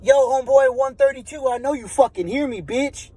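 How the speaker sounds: a neighbor yelling at a silent cellmate, mock shout; calling up, taunting. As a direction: call out to him across the tiers. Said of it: "He says".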